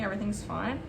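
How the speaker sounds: a quiet self-soothing mantra; forced calm. Real, not acted. Baker soothing herself as the cake cracks, forced calm. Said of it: "Oh, it's not fine".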